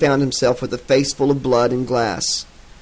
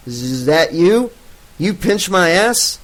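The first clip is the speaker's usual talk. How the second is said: groggy demand; 5 semitones higher, slower than usual. Acted. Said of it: "she demanded".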